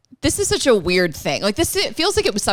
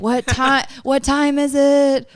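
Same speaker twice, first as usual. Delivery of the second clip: Hammer Time bit; 3 semitones higher, slower than usual. Pretend. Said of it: "you could do Hammer Time with it".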